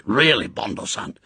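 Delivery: brisk, scolding host; lightly voiced impatient rebuke. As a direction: chide him like a disappointed teacher. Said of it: "Tiger hissed impatiently".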